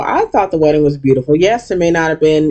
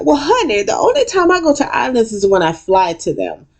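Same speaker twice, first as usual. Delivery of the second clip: imitating Quad; 7 semitones higher than usual. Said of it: "And Quad's like".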